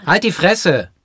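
angry outburst. Acted. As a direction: snap at the teaser. Snapping at teasing after "Hör auf.

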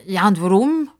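a touch incredulous; lightly doubting question; mild disbelief. Acted. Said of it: "Fragt Pippa ungläubig".

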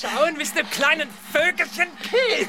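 leering mocking laugh. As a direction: tease her with a dirty laugh. (lachend höhnisch)

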